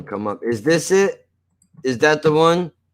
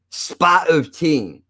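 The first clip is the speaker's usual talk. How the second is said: British accent; 4 semitones higher, much slower than usual. Shown as a demonstration. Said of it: "write down some words that you think that English people say in a certain way".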